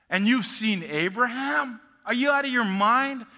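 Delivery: loud, high, scornful shouting; incredulous outburst. Acted. The Jews shouting at Jesus, outraged and incredulous. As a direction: yell it in disbelief and disgust.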